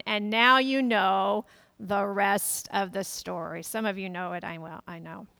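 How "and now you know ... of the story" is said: radio tagline. Retold or imitated. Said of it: "variation on the tagline".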